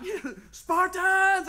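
long, high war cry; screaming. Retold or imitated. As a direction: bellow it like a battle rally, drawn out. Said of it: "I'm screaming".

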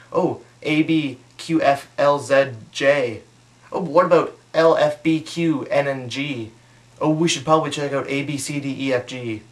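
lightly voiced dentists rattling letters; a mild mock of jargon, letter by letter; mock dentist code talk. Two dentists talking in code over me, lightly mocked. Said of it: "they start talking in their little teeth talk".

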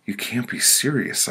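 high, pitiful whimper. Acted. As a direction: whimper it in disbelief. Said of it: "I whimpered".

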